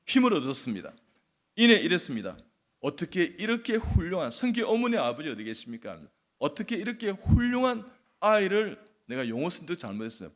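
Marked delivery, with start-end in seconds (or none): 2.8-8.8 high, loud flustered exclamation; acted-out flustered admiration, voice raised. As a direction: blurt out praise in a fluster. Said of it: "그만큼 제가 당황했다는".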